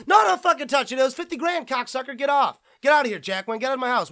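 high, loud shouting at guests who touched the card; outraged owner yelling get out; furious collector. Acted. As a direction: bellow them out of the house. Acted collector throwing friends out.

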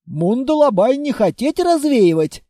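stubborn protest, stress on развеивать falling; a warrior digging in his heels; mild indignant refusal. Acted. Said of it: "запротестовал Мундалабай".

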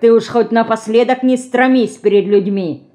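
put-on lightly scornful old man's words; a touch of contempt, talking down; contemptuous. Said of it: "презрительно сказал Ефим". (с лёгким презрением)

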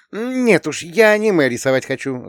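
put-on high, firm young girl's voice; girl declaring. A narrator's reading. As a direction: declare it like a determined teen. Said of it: "заявила она". (высоким голосом девочки, твёрдо и решительно)

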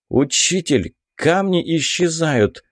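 ordinary delivery, nothing marked

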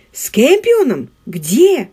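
sharp, high astonished question; surprised. Acted. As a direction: caught off guard, blurts it out. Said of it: "удивился Маркус". (удивлённо)

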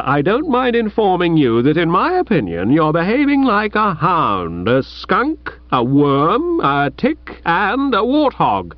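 high, heated rebuke; indignant rebuke. Acted. Chuffy rebukes his old friend Bertie, heated and high. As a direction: dress him down from a moral height.

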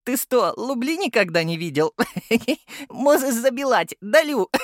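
put-on high, lisping little child voice, climbing as he laughs; lisping kid mocking the captain, giggling; lisping toddler. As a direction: play a cheeky two-year-old who can't say R.

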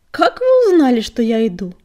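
huffing and puffing, out of breath; panting under playful kittens. Acted. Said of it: "пропыхтел Крутобок".

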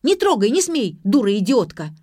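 high, loud, abusive scream; furious shriek. A narrator's reading. Zakorkina screaming at her classmate over the phone, furious. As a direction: scream insults to stop her. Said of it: "завизжала Закоркина".

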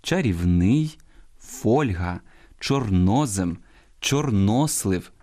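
чарівний on -ний, фольга on фоль-, чорнозем and чорнослив on -но-; correct stresses shown. Shown as a demonstration. Host models correct forms, stressing чарівний late, фольга early, чорнозем and чорнослив mid-word. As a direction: lean on the stressed syllable: чарів-НИЙ, ФОЛЬ-га, чор-НО-зем, чор-НО-слив. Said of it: "я зараз правильно читаю".

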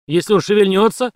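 громко, подъём на шевельнётся; грозно спрашивает; угроза вопросом. A narrator's reading. (угрожающий вопрос)

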